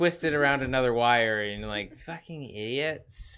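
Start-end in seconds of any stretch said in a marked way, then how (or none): 2.0-3.4 put-on valley girl voice, quieter. Describing someone twisting wires together, the speaker voices them as a valley girl. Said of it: "I don't know why I made you a valley girl".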